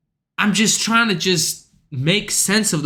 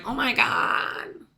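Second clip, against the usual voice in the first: mock gasp; 4 semitones higher, 7 dB quieter, slower than usual. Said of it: "the hoes are like".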